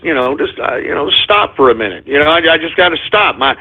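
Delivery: low, hushed confession; confessional. Acted. Host confessing drinking problem to his folks, low and grave.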